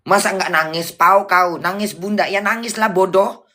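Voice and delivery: exasperated, insistent comeback; angry scolding. Real, not acted. Answering whether Bunda would cry, angry and exasperated. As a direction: hammer the point with rising irritation. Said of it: "suka kali marah-marah".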